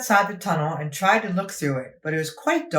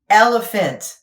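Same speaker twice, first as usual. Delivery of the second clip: big reveal; 5 semitones higher, 7 dB louder, slower than usual. A narrator's reading. Reveal of surprise.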